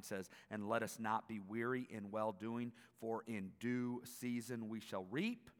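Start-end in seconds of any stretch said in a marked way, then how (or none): none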